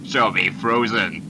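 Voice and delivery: low, slow gravel demand; dark gritty voice. Pretend. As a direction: growl it like a movie villain. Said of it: "be like in a dark voice".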